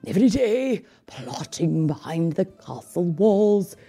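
feigned shock. A narrator's reading. Villain lying to the king, feigned shock. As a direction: fake outrage to fool the king. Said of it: "pretending to be greatly shocked".

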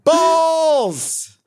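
very high, stretched-out yell; mock gleeful shout. Dad imitates kids swearing all day, gleeful high holler. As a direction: holler it like a naughty kid.

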